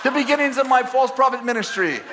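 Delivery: high, loud, laughing shout; laughing self-mockery. Real, not acted. Joking to the audience about his false prophecy, laughing loud. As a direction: roar it out, mocking yourself.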